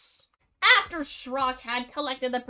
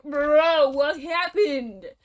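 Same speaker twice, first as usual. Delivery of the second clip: Mule's voice; 2 semitones higher, 5 dB louder, slower than usual. Acted. Mule asks the slime.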